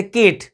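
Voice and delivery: "केट" pronounced like Kate; long ay in the middle of "केट"; wrong long vowel. Shown as a demonstration. Teacher checks with pupils, wrong long vowel in "केट". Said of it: "नहीं कहते ना".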